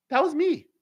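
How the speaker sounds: retold punchline in a high squeal; high-pitched reveal.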